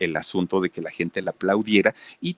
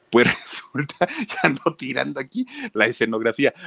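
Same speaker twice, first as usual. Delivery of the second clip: higher, giggling through it; embarrassed laugh mid-sentence; laughing at herself; 6 semitones higher than usual. Real, not acted. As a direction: caught knocking over the set. Narrator laughs at her clumsiness.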